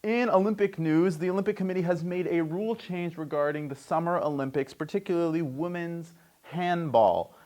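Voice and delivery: sports news read. Acted. Host reads Olympic rule change, news read. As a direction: announce the item, settling as it goes.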